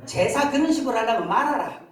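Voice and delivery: a touch of Gyeongsang dialect rebuke. Acted. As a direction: deliver God's rebuke in light Gyeongsang dialect. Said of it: "경상도 말로". (경상도 사투리로 살짝)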